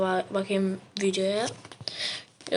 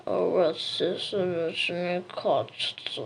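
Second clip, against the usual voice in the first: swallowed voice; 3 semitones lower, much slower than usual. Acted. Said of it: "sesin gerçekten içine kaçmış gibi".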